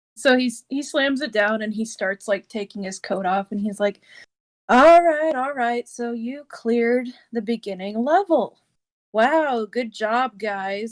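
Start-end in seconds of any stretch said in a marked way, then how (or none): 4.7-11.0 put-on bone-dry, super sarcastic praise. Retelling what a character said while slamming his clipboard down, retelling a super sarcastic line. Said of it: "he's like super sarcastic and dry about it".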